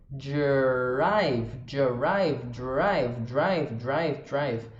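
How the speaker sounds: "drive" with a clipped English dr cluster. Shown as a demonstration. Teacher drilling Brazilian students on drive, slow and clear. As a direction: say "drive" with d and r joined, no vowel between. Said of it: "o drive vai ter um dr".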